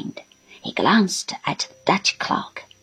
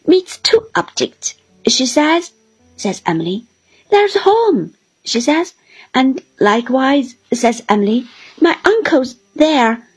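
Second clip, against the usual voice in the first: a lightly voiced bluff old seaman, welcoming; hearty rough welcome, a touch louder; hearty fisherman; 4 semitones higher, 5 dB louder than usual. Mr Peggotty repeats Emily's words.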